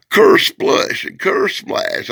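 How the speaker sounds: slow, high, exaggerated exclamations; drawn-out hammed-up effect words; comic sound effects. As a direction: blurt each effect like a cartoon crash.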